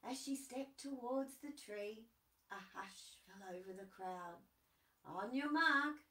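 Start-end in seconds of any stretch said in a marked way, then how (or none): 5.0-6.0 loud announcer call; race starter. Acted. Kookaburra calling the race start loudly. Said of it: "said the Kookaburra".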